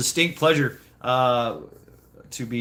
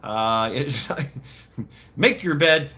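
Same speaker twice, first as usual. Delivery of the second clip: imitated yelling mom; 4 semitones higher than usual. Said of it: "yelling at him".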